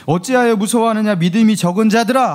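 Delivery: a touch of a scolding Jesus; mild rebuke. Retold or imitated. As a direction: gently scold the fearful disciples. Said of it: "하면서 꾸짖으셨대요".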